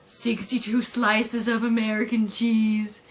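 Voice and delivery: slow, lightly voiced cartoon dad; a hint of a doting, slow cartoon voice; Homer quote. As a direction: draw each word out slowly. Acts Homer at the fridge.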